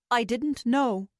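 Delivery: slow and calm. Acted. Old man confessing to the room, calm and slow. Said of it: "he said in a calm voice".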